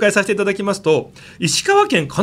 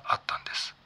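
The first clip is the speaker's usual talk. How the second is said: whispering; 14 dB quieter than usual. Acted. Climax of ghost story.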